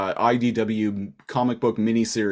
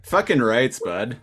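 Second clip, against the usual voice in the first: mock Canadian. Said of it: "the most Canadian swear ever".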